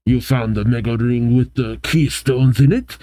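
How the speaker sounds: lightly put-on French accent; loose, measured French accent. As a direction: voice a villain boss with a hint of French. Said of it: "I'm giving a French accent".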